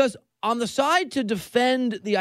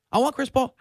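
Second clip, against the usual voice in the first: imitating Harden; 4 semitones higher than usual. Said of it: "He's a whisper shouter".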